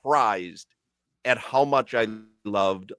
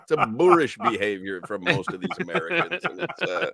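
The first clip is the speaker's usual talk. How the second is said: hammed-up appalled English gent, higher; higher mock English disdain; mock posh British; 6 semitones higher than usual. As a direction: scold Americans like a snob. Mock English scorn at Americans.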